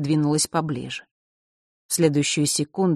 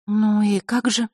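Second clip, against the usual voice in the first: gloomy; 4 semitones higher, slower than usual. Acted. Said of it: "хмуро спросила она".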